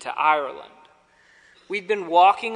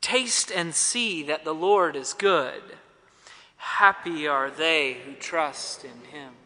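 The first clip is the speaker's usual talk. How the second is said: slow reverent; 4 semitones lower than usual. Real, not acted. Closing refrain, slowed.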